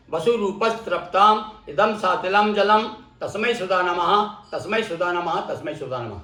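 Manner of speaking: measured Sanskrit recitation, falling away at the end; teacher's demonstration of a mantra. Shown as a demonstration.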